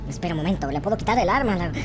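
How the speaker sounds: ordinary delivery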